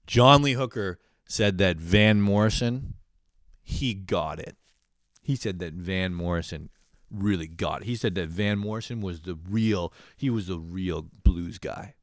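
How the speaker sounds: slow, drawn-out proud dad; a hint of dad reverently announcing it; lightly voiced jazzed dad. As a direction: lightly imitate dad savoring his favorite fact. Dad's favorite fact, acted out.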